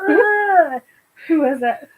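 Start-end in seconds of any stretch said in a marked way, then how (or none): 0.1-0.8 higher-pitched mock groan; put-on slapped groan; imitated pained "ugh". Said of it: "Kip is like".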